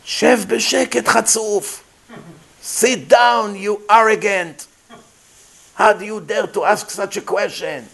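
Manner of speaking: fiery rebuke. Retold or imitated. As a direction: rebuke him like a torch of fire. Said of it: "became like a torch of fire".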